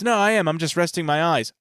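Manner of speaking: lightly voiced cartoon boy; high Bart voice. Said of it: "He goes".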